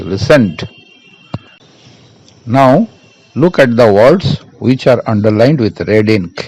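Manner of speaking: very slow, each word set apart; slow, deliberate English; slow dictation. Shown as a demonstration. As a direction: read it out slowly for the class to follow. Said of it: "reading the task to the class".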